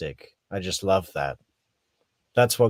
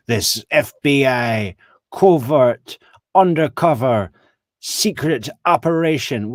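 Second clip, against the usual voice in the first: mock shady drama; 2 semitones higher, 7 dB louder than usual. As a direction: ham it up like a sinister conspiracy. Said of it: "she says it like it's this super shady thing".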